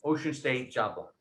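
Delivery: Rhode Island "Ocean State Job Lot"; name the store like a Rhode Islander; Rhode Island accent. Shown as a demonstration. Telling class where to buy jewelry, Rhode Island accent. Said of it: "the Rhode Island accent".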